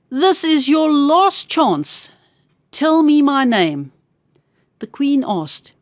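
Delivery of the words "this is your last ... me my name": a hint of a sly imp, drawn out slowly; slow menacing little man. Little man threatens the queen at sunset, slow and menacing. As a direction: lean on each word to threaten her.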